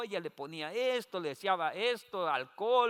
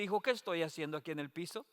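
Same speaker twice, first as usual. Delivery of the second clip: confused mother, softer; 8 dB quieter, faster than usual. Retold or imitated. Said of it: "Y me dice".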